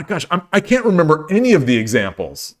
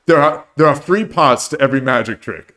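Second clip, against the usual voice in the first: put-on a barely-there British Michael Caine accent; Michael Caine impression. Host quoting The Prestige, faint Michael Caine British accent. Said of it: "the worst Michael Caine impression you'll ever hear".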